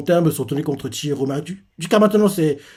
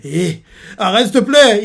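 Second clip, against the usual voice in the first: pleading, pitched higher and louder at the end; emotional plea; 4 semitones higher, 4 dB louder than usual. Retold or imitated. Soya begs his brother to stop, emotional high plea. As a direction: beg him to stop, voice climbing. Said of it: "il est très émotif".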